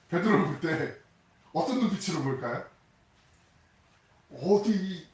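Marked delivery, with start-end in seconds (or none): 4.3-5.1 louder, higher mock scolding. Jesus glaring at a traitor disciple, mock indignant scold. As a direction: play an indignant teacher glaring. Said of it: "막 이러면서 막 그런 눈빛으로".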